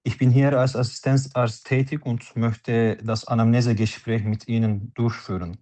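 usual speaking voice

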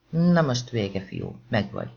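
mélyebb, durva hangon fenyegetőzik a támadó. Acted. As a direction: elkapta a fiút, diadalmasan morog. Támadó hátulról megragadja Nathant. (a támadó hátulról elkapja Nathant, mély, fenyegető hangon)

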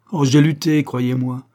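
loud, pained insistence; anguished protest. A narrator's reading. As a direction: burst out as if worn down by struggle. Luca's anguished confession.

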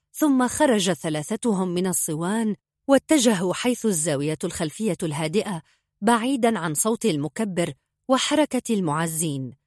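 usual speaking voice

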